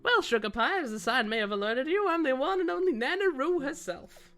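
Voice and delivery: lightly voiced granny shopkeeper; a hint of proud cartoon hostess; Nana Roo introducing herself. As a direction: welcome them with a swooping sing-song.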